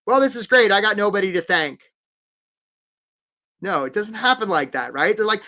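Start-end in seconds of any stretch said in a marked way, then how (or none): 0.1-1.9 loud, high movie-star proclamation; hammed-up winner at the podium; mock acceptance speech. Acts a movie star's award speech.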